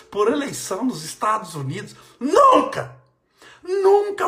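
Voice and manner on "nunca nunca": high, loud cry of never; emphatic refusal. Real, not acted. Preacher to his viewers, loud high emphatic never. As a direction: shout it out twice, full conviction. Refusing to get upset over elections.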